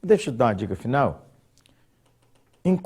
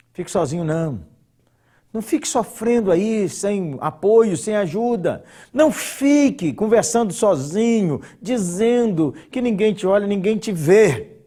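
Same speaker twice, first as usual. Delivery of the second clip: high, loud pleading exhortation; fervent preaching; 8 semitones higher, 5 dB louder than usual. Acted. Preacher urging lonely viewers not to suffer alone, fervent and loud.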